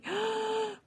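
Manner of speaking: sharp, high, breathy gasp mimicking the crying girl; a quick, high sobbing intake of breath; mock crying gasp while retelling the girl's tears; imitated tearful gasp. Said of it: "막 울면서".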